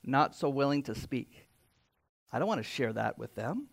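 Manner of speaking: a shy introvert pulling back; mock introvert trailing off quietly. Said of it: "our most introverted person in this room would say".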